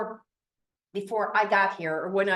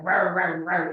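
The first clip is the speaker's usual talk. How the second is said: a hint of a gruff old man growling, lower; curmudgeonly grumble; 4 semitones lower than usual. Crusty client George grumbling at the agent's driving, mock gruff. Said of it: "he's so curmudgeonly. He's like".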